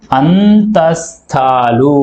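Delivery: అంతస్థాలు stretched very slowly syllable by syllable; very slow drawn-out term. Shown as a demonstration. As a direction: draw out అంతస్థాలు for students to copy. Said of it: "అనే అక్షరాలను మనం ఏమంటాం". (అంతస్థాలు చాలా నెమ్మదిగా సాగదీసి)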